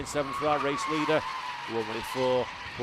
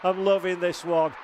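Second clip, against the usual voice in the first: smiling voice; 3 semitones higher than usual. Real, not acted. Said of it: "You can hear the smile in my voice".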